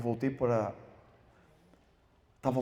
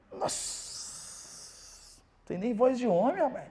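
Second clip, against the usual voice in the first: mock contempt; 12 semitones higher, much slower than usual. Critic mocking his voice.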